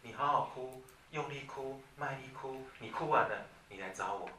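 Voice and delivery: soft, calm, steady reassurance; gentle and firm. Shown as a demonstration. Parent calmly telling a crying child to come back later. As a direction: speak kindly but with certainty. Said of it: "语气温和的、肯定的跟他讲".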